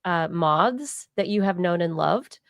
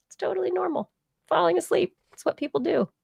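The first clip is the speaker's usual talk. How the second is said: mock high voice; 10 semitones higher, faster than usual. Mocking sleep advice.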